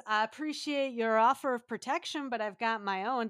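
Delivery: half-hearted attempt at a Scottish accent; really bad Scottish accent. Joe McTaggart turning down protection, bad Scottish accent. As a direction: try a Scottish accent and miss. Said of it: "That was a really bad accent".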